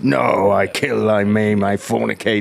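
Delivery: lightly hammed-up comedy villain confession; Blackadder character. Quoting Blackadder to the other musician, lightly hammed-up character voice. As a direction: draw out the opening, mock-solemn.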